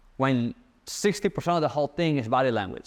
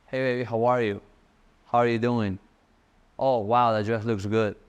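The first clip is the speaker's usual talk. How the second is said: smooth flirty tone; 3 semitones lower than usual. Shown as a demonstration. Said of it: "I pitch my tone".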